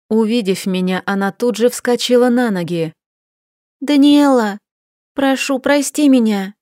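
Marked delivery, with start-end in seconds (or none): 3.8-4.6 put-on higher, louder voice of a tearful young wife; pleading trembling voice. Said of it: "взмолилась Софи дрожащим голосом". 5.1-6.5 higher, tearful begging; pleading trembling voice. Acted. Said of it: "взмолилась Софи дрожащим голосом".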